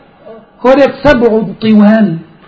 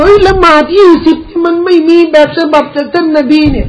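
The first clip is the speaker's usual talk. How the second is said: higher-pitched protest, imitating past debaters; re-enacted objection, pitched up; mock arguing; 5 semitones higher than usual. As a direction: object as if in an old dispute. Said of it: "แต่ก่อนนู้นนะเขาสู้กันน่ะ".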